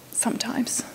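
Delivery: breathy whispered concession. Acted. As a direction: let it out as a whisper, giving in. Mother gives in softly.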